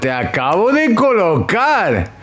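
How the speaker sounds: very slow, stretched out; milk each syllable slowly; drawn-out drama. Acted.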